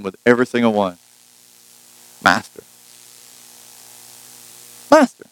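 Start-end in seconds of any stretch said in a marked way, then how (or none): 2.2-2.6 low master. Shown as a demonstration. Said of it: "it starts out the same". 4.9-5.2 high master. Shown as a demonstration. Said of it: "it starts out the same".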